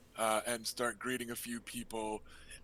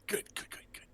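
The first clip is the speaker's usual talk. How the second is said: whispered; 6 dB quieter, faster than usual. Acted. Ned answers quietly, grinning.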